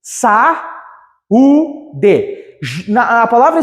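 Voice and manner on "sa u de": "Sa-u-de" chopped into three paused beats; syllable separation. Shown as a demonstration. Teacher repeating the syllable division, separated beats. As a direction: leave a clear gap between Sa, u and de. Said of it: "separação silábica de saúde".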